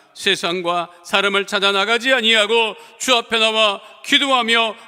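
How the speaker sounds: steady prayer building in force; earnest prayer. Acted. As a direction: plead with rising earnestness. Pastor prays petitions. (점점 간절해지는 기도)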